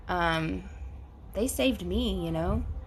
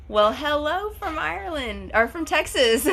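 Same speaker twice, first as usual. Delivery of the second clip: laughing; 7 semitones higher than usual. Real, not acted. Laughs at her own slip.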